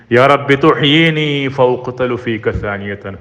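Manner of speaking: slow measured Arabic recitation; Quran recitation. Acted. Preacher intoning the prayer to the congregation, slow recitation. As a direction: intone the verse slowly.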